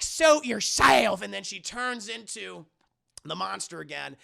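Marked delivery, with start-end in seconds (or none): 0.0-1.2 slow, loud, high dismissive line; cold dismissal. Retold or imitated. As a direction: drop it on him slowly with contempt. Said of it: "And she's like".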